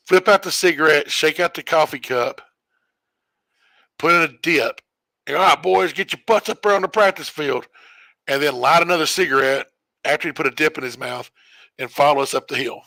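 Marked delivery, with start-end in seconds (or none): 5.4-7.7 grumpy coach call. Retold or imitated. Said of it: "He was gr-, grumpy, grindy".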